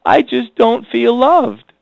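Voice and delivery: hurt wife. Retold or imitated. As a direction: play a wife gently voicing her hurt to her husband. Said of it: "she just comes up and says".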